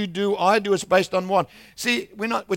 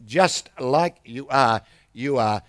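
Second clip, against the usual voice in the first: very slow, lower, gentle; slow tender repeat; 4 semitones lower, slower than usual. Retold or imitated. Preacher repeats to the woman, slow and tender.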